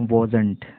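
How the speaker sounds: wasn't said as one word, wozent; wasn't pronounced. Shown as a demonstration. Teacher models the contraction wasn't for students. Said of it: "not का short form है".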